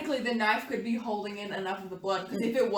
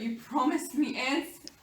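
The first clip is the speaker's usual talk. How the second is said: insistent dying plea; 3 semitones higher, slower than usual. Acted. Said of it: "call out to Jonathan quietly".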